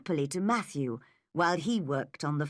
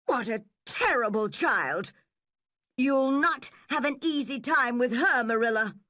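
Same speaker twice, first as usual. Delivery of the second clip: indignant neighbour; 6 semitones higher, 4 dB louder than usual. A narrator's reading. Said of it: "said Missus Lynde".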